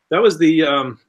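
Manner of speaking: choking on a drink. Real, not acted. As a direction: talk past something stuck in the throat. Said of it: "man, I'm choking".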